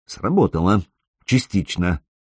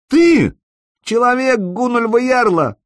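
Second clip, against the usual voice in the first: much higher sneering mockery; nasty mocking laugh; 13 semitones higher than usual. A narrator's reading. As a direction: laugh at him as nastily as you can. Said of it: "постарался смеяться как можно противнее".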